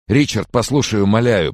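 high, loud, whining begging; moaning plea. A narrator's reading. Sick man begs his friend by phone, moaning. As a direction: moan and beg to be believed. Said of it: "продолжал стонать Фрэнсис".

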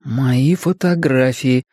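slow, deliberate read-aloud. A narrator's reading. Richie reads the album's title aloud, slowly. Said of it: "прочитал Ричи".

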